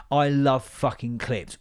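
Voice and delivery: slow, leaning on fucking; I love fucking clips, drawn out; emphatic fucking; stress for emphasis. Real, not acted. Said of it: "fucking for emphasis".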